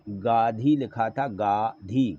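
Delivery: गाधी with no n sound; गाधी as misspelled, gaa-dhee; without nasal. Shown as a demonstration. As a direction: say गाधी syllable by syllable, oral vowels. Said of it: "ऊपर बिंदी लगा दें".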